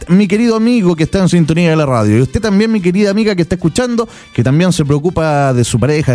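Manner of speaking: upbeat radio ad read; infomercial. Acted. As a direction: sell it like a radio pitchman. Host pitches product on radio.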